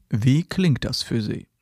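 slow, drawn-out canned question; a hint of a slick salesman; mock salesman. Salesman asks the customer at the end of the pitch, slow mock. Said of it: "Hast vielleicht auch schon mal gehört".

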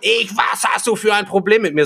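high, loud, confrontational mock yell; imitated screaming. Woman accusing him of having a problem, imitated screaming. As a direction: throw it back at him in a shrill impersonation. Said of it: "angeschrien hat".

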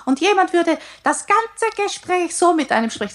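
demoing an airy high voice; high head voice. Shown as a demonstration. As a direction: float it up into the head, fast. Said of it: "so einer sehr hohen, vom Kopf abgehobenen Stimme".

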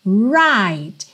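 RIGHT opened with a strong curled R; curled initial R. Shown as a demonstration. Teacher models the word-initial R, curled. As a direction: lean on the R starting RIGHT. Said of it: "ele vai sim vir enrolado".

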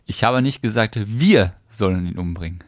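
"wir" punched; weight on "wir"; stress on WIR. Shown as a demonstration. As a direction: lean on "wir". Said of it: "Jetzt betonst du das Wort?".

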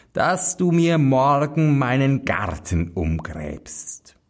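hohe, befehlende Hexe; Hexenstimme. Acted. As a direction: alte Hexe stellt ihre Forderung. Hexe verlangt Arbeit. (gebieterische Hexe)

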